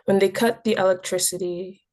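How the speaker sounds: deliberate, firmly projected poem opening; poem recitation. Acted. Poet opening a poem about visiting Nigeria, deliberate recitation. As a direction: announce the title, then launch into the verse.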